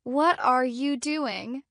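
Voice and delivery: slow, every word fully pronounced; careful full-form question, drawn out. Shown as a demonstration. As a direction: say each word separately and carefully. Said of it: "don't speak word by word".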